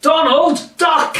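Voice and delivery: high quacking cartoon duck shout, slow; laughing duck-voice shout of warning; Donald Duck voice. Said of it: "Now they have to shout".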